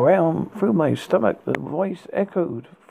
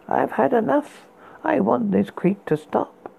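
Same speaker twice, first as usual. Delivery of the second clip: exasperated; 6 semitones higher than usual. Acted. Exasperated complaint.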